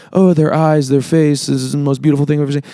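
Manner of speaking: acted-out infatuated rush; smitten gushing. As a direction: rattle it off like someone besotted. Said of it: "you just like".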